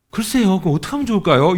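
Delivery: feigned cluelessness, hammed-up; playing dumb. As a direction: act like you don't get the hint. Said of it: "이런다고요".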